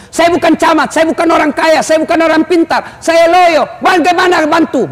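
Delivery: whiny excuses. Retold or imitated. Congregant making excuses.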